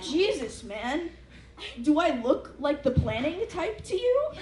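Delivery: annoyed retort to the billboard; exasperated. Retold or imitated. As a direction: throw it back with disbelief. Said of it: "And I'm like".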